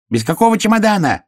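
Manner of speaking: high-pitched hare yell; squealed, outraged question. A narrator's reading. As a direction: cry out high in protest. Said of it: "заорал заяц".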